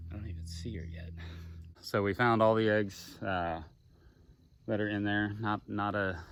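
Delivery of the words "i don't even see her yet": hushed whisper, on the lookout. Real, not acted. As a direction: whisper fast, watching the bushes. Whispering, watching for alligator.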